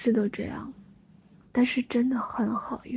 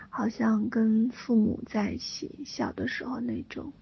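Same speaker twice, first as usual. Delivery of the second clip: guided meditation. Acted. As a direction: lull them into calm breathing. Leads a money meditation.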